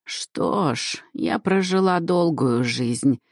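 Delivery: humble, half-whispered resignation; a meek old woman accepting fate; resigned. Acted. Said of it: "смиренно произнесла".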